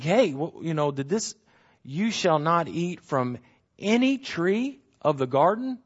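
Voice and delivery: a hint of a scheming tempter drawing it out; mock tempter's question. Preacher voicing Satan baiting Eve, sly mock question. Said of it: "He says".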